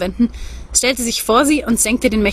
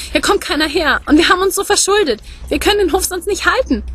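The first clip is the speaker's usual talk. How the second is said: put-on the young woman pleads in a much higher voice, near tears; tearful pleading; 6 semitones higher than usual. A narrator's reading. Young farmer's wife begs Gerhard through tears, high and pleading. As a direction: beg through rising tears, pitch climbing. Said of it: "brach plötzlich in Tränen aus".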